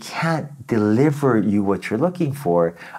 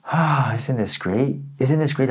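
slow relaxed sigh; 3 semitones higher, much slower than usual. Shown as a demonstration. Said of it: "acting as if, like".

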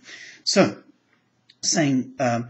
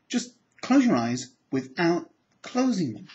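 slower, drawn out; slow insistence; 4 semitones higher than usual. Shown as a demonstration. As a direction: spell it out slowly. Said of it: "Try really hard".

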